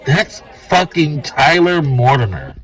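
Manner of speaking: a patron recognizing Tyler at the bar; stranger's excited recognition. Retold or imitated. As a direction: blurt it like you spotted a celebrity.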